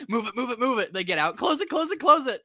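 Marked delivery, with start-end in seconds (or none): 0.1-0.9 higher, repeated hurrying orders; mock urgency. Crew hurrying to escape, mock urgency. 1.4-2.4 high-pitched, hurrying orders; frantic mock urgency. Crew scrambling to close it behind them, frantic mock urgency. Acted hurried closing of door.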